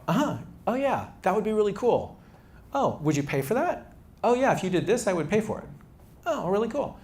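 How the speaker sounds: high, bright-eyed customer gushing with approval; eager customer. Retold or imitated. Founder acts out customers reacting to his wireframe, high and eager. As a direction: play the nodding customer who loves it, pitch way up.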